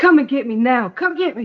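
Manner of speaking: put-on voice, loud, too loud. Recapping a show, acting out her phone call asking to be picked up, imitating a loud demand. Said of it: "lower your voice down two notches".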